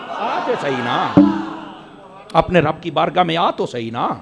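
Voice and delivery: soft plea. Acted. Soft plea after the shout.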